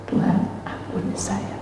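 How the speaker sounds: soft pleading whisper to God; whispered prayer. Retold or imitated. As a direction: breathe the plea on your knees. (bisikan memohon ampun)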